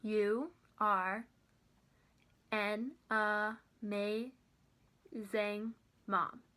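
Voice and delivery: very slow, long gaps between syllables; each syllable isolated by a pause; chin-trick syllable test. Shown as a demonstration. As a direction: break "amazing" into a, may, zing. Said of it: "we can test it out with the chin".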